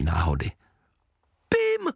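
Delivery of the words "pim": a sudden, very high shriek of his name; mother cries out her son's name, way up high; mother spots her lost son on the road and shrieks his name; mother's cry. A narrator's reading. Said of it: "vykřikla maminka".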